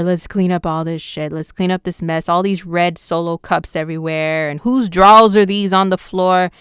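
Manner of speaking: dismayed tidy-up rant, rising at the end; lightly hammed-up disgust at a messy living room; mock neat freak. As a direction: play a fussy roommate finding the mess. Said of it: "This is energy just like".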